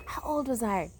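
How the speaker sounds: whispering to herself; whispered aside. Real, not acted. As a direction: mutter the question under breath.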